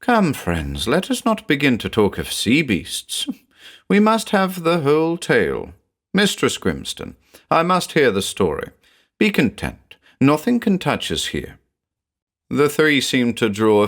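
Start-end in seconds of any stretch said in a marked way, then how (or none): 0.0-11.6 forced cheerfulness. A narrator's reading. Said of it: "with all the cheerfulness he could muster".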